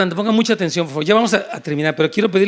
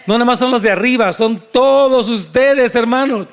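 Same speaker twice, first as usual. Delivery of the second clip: emphatic preaching; 3 semitones higher, 3 dB louder than usual. Real, not acted. Preacher presses point on congregation.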